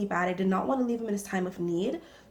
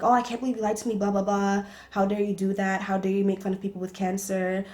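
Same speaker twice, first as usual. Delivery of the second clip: retold telling-off; faster than usual. Driving off, scolding the lying boyfriend, mock angry. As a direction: chew him out, half-mocking your own rant. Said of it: "I'm there going off on him".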